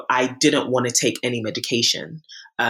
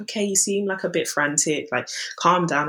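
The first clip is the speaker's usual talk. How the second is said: imitated calming doctor; 5 semitones higher than usual. GP telling a frantic patient to calm down, imitated calming voice. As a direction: lightly mimic a doctor settling someone down.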